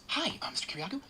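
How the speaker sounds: high, falsely friendly greeting; fake friendly agent. FBI agent greeting the author at his door, fake friendly. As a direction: put on an agent's overly nice voice. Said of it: "The guy goes".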